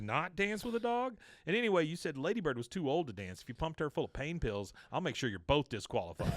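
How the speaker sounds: high-pitched start, then pressing on with the threat; retold defiance. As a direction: imitate a son's indignant back-talk. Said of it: "Bobby is really defiant right here".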